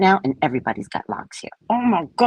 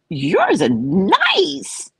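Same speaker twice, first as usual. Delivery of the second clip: slow deliberate praise; 7 semitones higher, much slower than usual. Retold or imitated. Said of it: "I go".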